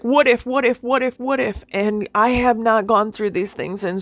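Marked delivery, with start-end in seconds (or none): 0.0-1.6 put-on higher, anxious child repeating herself; a frightened little girl, higher and anxious; little girl's fearful voice. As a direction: voice the scared little girl inside. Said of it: "this little girl is like".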